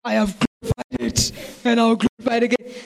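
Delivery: God's booming voice from heaven; a mighty, resounding divine pronouncement; thundering God. Retold or imitated. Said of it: "And God from heaven thunders".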